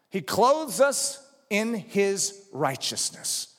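slow, spaced phrase weighting "in"; stress on "in". Real, not acted. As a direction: set "in" apart with deliberate emphasis. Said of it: "I emphasize the word in".

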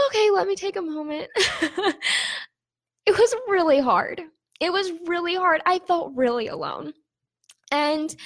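tearful. Real, not acted. Vlogger taking a moment after crying, tearful. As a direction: push on through real tears. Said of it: "I really am crying".

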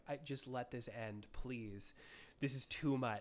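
soft, worn-out begging; exhausted plea. Retold or imitated. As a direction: plead like a drained moviegoer. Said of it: "You're like".

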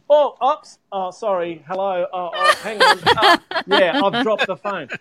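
high, laughing mock fumble; comic oops-sorry voice, breaking into laughter; acted-out fluster. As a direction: replay an on-air blunder in little startled bursts. Acting out dropping phone on livestream.

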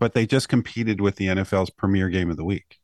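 dry sarcasm about the big game; deadpan, mocking praise; sarcastic. Real, not acted. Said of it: "I said that with complete sarcasm".

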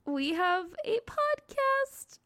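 hammed-up announcer plugging the show; mock ad read. Promoting their podcast to its own listeners, hammed-up slow ad voice. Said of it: "I started this advertisement for our podcast".

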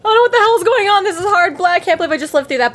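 mock screaming. Fan mimicking Percy Jackson's inner narration, screaming. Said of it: "he was just screaming".

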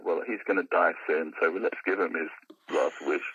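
low, grim, resigned mutter; a lightly voiced grim barman resigned to it. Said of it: "in a sort of tone which said".

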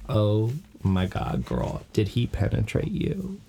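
slow, drawn-out gossipy gasp; gossipy friend voice. Retold or imitated. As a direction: lean in for the juicy gossip. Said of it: "Willow is basically like".

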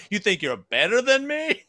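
high, whiny mock offense; mocking a rejected guy. Acting the rejected guy to the co-host, high whiny offense. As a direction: squeak it like a sore loser.

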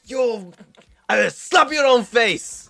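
high, loud, furious yell; enraged high shout at the creature. Acted. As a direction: scream it at the creature, livid. Character furious at summoned creature.

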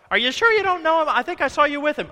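loud, high, pressing accuser; hammed-up suspicious bystander; mock accusing. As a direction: push the question hard and loud.

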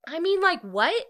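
loud, high-pitched disbelief; stunned outburst, jumping up high; incredulous reaction. Real, not acted. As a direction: burst out in baffled astonishment. Reacts to surprise marriage proposal.

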